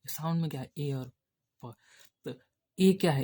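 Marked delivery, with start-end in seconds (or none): 0.8-1.7 "ए" and "प" as two separate sounds, pause before "प"; sounded out. Shown as a demonstration. Teacher breaks a word into its shorthand sounds, sounded out "ए और प". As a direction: sound out "ए", then a short "प" on its own. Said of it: "short hand में sound सुना जाता है".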